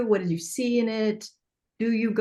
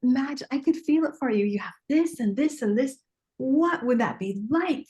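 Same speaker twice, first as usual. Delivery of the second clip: dreamy coaxing; 4 semitones higher than usual. Shown as a demonstration. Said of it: "my gift is like".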